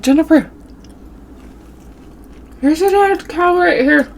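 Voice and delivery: high, loud, panicked call to her cousin; calling out scared. Retold or imitated. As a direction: yell across the pond, spooked. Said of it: "I'm, I'm like".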